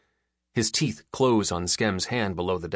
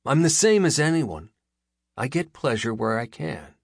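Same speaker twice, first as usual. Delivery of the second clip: defiant boast; 7 semitones higher, 5 dB louder than usual. A narrator's reading. Skem boasts defensively.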